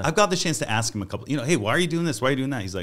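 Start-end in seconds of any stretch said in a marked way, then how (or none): 1.4-2.6 high, loud quizzing of a friend; raised pitch, insistent questions; retold puzzled questioning. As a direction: re-enact pressing someone for a reason. Retelling his probing questions to Bill.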